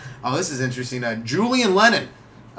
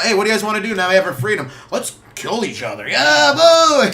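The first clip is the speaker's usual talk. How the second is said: mock cheering; 6 semitones higher, 6 dB louder than usual. Voicing freed nations, cheering.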